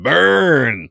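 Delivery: loud, high drawn-out mock taunt; gleeful jeer. Host crowing at the butler's put-down of Miss Kyle, gleeful jeer. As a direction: crow it out after the put-down. Jeering reaction to a read-out put-down.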